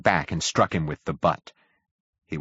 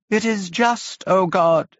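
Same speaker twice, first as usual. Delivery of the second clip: high, ranting, half-mad preacher voice; a crazed priest crying out to God, much higher; frantic curate; 11 semitones higher, 4 dB louder, slower than usual. A narrator's reading. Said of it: "he would say over and over again".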